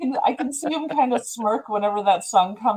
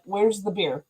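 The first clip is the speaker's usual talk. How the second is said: a light imitation of an Australian accent; mild Australian accent; 4 dB quieter, slower than usual. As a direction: quote the Australian lightly, with a falling "Where's". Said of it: "Australian accent".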